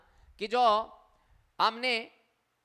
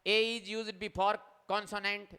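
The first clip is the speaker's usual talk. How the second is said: slow reading aloud; much slower than usual. Shown as a demonstration. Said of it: "teacher reads rule slowly".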